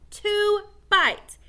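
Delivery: put-on a boy's indignant cry; frustrated outburst. A narrator's reading. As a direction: burst out at the lost win. Boy's frustration over lost bet.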